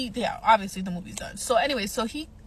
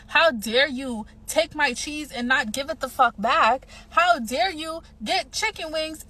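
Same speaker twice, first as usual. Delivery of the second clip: indignant rant; 4 semitones higher, 4 dB louder, slower than usual. Real, not acted. Ranting at date's behavior.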